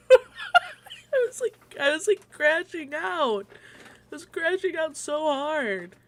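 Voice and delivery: laughing through tears while telling it; laugh-crying. Real, not acted.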